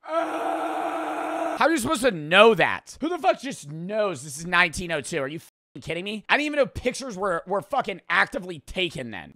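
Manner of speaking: high-pitched disbelieving rant; incredulous outburst. Real, not acted. Streamer stunned that photos existed in 1902, incredulous.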